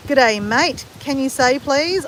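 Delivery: put-on light Australian accent; a friendly stock Australian greeting. Asking her to say it, light Australian accent. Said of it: "I just love the accent".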